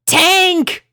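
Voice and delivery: very high, loud desperate call; pleading cry. A narrator's reading. Rainbow begging her tortoise for help, desperate cry. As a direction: call for rescue. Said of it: "she pleaded".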